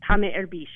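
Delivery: tá mé erbís said plainly, falling on tá; Irish pronunciation. Shown as a demonstration. Teacher repeating the Irish phrase for the host. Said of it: "that means".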